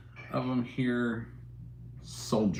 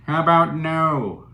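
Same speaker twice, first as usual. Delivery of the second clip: slow, louder, pointed refusal; flat refusal; 3 semitones higher, 5 dB louder, slower than usual. Real, not acted. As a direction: shut the request down slowly. Refusing a viewer's request.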